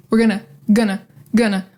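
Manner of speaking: "gonna" repeated with a relaxed reduced vowel. Shown as a demonstration. Teacher drilling the reduced form. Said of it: "break it up into chunks".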